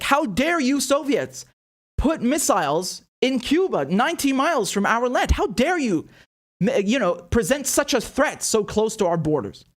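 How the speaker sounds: hammed-up outrage at the Soviets; outraged. Mocking the United States' reaction to Soviet missiles, in a high indignant voice. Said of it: "The United States was so outraged".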